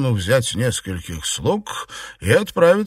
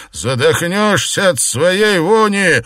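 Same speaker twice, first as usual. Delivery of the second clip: spat in anger; 7 semitones higher, 5 dB louder than usual. Acted. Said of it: "плюнул в сердцах".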